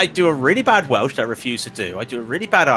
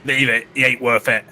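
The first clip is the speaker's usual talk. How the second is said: attempted London soap accent; EastEnders London accent. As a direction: try an EastEnders voice, not quite there. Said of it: "I can't do an EastEnders".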